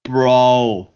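conspiratorial whisper as the booker; whispered bro. Retold or imitated. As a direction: lean in and whisper. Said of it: "my really, really bad, uh, Vince Russo impersonation".

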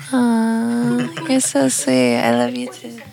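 sweet mock voice reading messages; kind gentle laugh. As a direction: coo it like a gushing fan. Reading sweet DMs aloud, mock voice.

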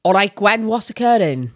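sing-song Welsh greeting; Welsh accent. Shown as a demonstration. Demonstrating accent number five, Welsh accent. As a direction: do a lilting Welsh catchphrase. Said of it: "Five, Welsh".

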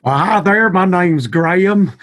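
high, slow, put-on spooky greeting; spooky voice for a fright. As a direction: drag it out to startle your pal. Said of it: "give my, my pal Jeremy here a little bit of a fright there".

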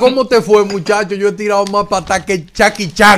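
put-on brash uncle greeting his nephew's girlfriend loudly; loud rowdy uncle. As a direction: bellow like a boastful uncle.

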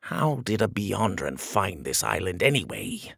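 a muted aside to your advisers; whispering. Acted. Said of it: "he whispered to his wizards".

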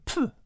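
short dismissive puff of air; muttered pfft. A narrator's reading. Cat inspects damaged plants, muttered pfft. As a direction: puff it out under the breath. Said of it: "muttered under her breath".

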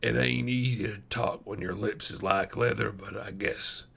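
a hint of a parched, weary man; weary dying wanderer. A narrator's reading. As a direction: gently soothe a thirsty child, folksy and tired. Narrator voices the dying man.

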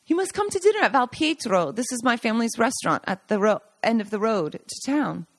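lightly voiced host; inviting Giancarlo. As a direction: insist warmly that they come.

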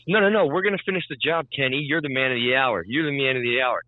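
lightly mocked sarcastic reassurance; passive-aggressive. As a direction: imitate someone being pointedly over-agreeable. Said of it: "Being super, ... super passive aggressive".

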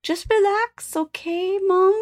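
a light, retold Filipino accent from the doctor; imitating Filipino accent. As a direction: mimic the nurse's gentle Filipino accent. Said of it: "what's this accent?".

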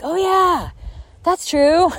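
high, airy dawning-recognition voice; mock client realizing. Mimicking clients reminded of their progress, high and airy. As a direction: play a client who just remembered. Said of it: "be like".

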